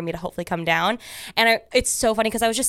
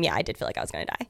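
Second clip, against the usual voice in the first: laughing; 10 semitones lower, 7 dB quieter, much faster than usual. Real, not acted. Laughing at herself.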